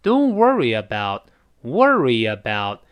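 slow worry about with a y glide; worry-yabout, drawn out; linked worry about. Shown as a demonstration. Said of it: "中间都有个耶来过渡".

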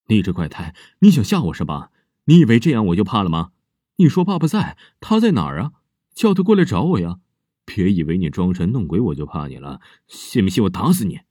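put-on loud, furious shouting at a child; angry stepmother. Stepmother threatens the girl, loud angry shout. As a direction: bark threats to scare off a creepy kid.

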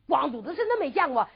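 exasperated rhetorical question; first, restrained take of an annoyed question; mild scoff. Acted. Maid scoffs, then repeats louder.

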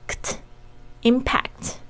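impact said slowly and softly, its final kt barely released; soft unreleased kt in impact. Shown as a demonstration. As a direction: ease off the kt at the end of impact. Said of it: "发轻一点".

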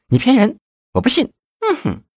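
put-on very high, pouty girlish whine; coquettish. A narrator's reading. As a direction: act cute and disbelieving with a lover. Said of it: "显得更加娇媚了".

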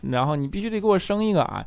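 stammering, demanding father; stubborn dad. Retold or imitated. Dad insists on a grandchild, high mock stammering voice. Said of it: "然后他爸说".

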